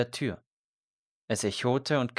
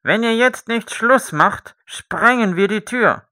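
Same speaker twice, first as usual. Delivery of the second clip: much higher, loud threatening shout; shouting threat; 12 semitones higher, 12 dB louder than usual. A narrator's reading. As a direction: bellow the threat through the door. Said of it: "rief Herr Tönjes".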